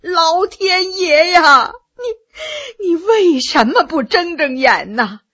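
slow, howling cry to heaven; old woman beating her chest and wailing; 嚎啕大哭; wailing lament. A narrator's reading. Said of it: "一边嚎啕大哭起来呀".

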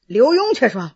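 ordinary delivery

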